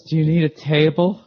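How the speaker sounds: lightly voiced polite stranger; a hint of an eager helper asking; quoting the guy. Comedian retelling a stranger's question, lightly voiced. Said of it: "and he goes".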